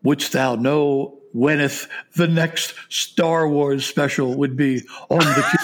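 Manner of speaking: slow, lightly hammed olde English fair worker; mock Renaissance herald. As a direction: play the fair worker with slow courtly words. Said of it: "the guy who's taking the money says".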